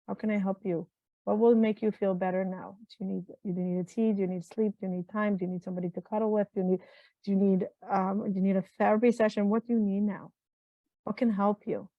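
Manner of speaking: asking herself kindly what she needs; tender self-talk. Shown as a demonstration. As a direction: coax yourself gently like a friend. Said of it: "Give it a lot of space".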